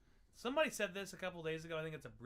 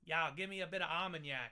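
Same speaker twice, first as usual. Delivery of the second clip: put-on Boston accent; 5 dB louder than usual. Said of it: "It's like Boston".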